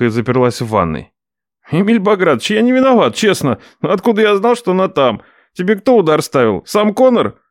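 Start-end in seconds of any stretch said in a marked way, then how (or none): 1.7-7.4 nephew shouting. Acted. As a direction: call through the door defending himself. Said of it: "Прокричал он".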